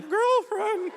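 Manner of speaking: very high, loud cracking squeak; mock teenager voice crack. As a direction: imitate a teenage boy's voice breaking. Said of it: "teenager in no time".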